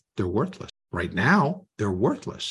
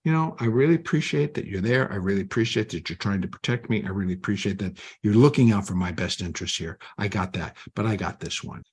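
calmly; 2 semitones lower, faster than usual. Retold or imitated. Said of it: "learn to calmly say".

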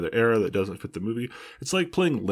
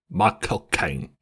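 Michael Caine; 2 semitones lower, slower than usual. Pretend. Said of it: "Mike will be playing the roles of Michael Caine".

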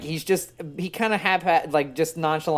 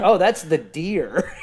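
deadpan excuse; 4 dB louder, slower than usual. Retold or imitated. Caller explaining the noise.

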